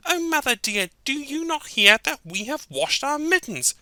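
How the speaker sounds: very high eager kitten voice; proud high kittens. Acted. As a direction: announce it proudly to mother.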